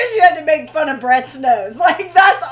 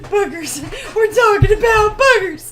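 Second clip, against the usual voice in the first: laughing; 4 semitones higher, 3 dB louder than usual. Retold or imitated. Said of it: "And he said".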